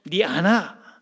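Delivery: emphatic Gyeongsang intonation; Gyeongsang style. Shown as a demonstration. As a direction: toss it out as a blunt Gyeongsang husband. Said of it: "경상도 스타일로".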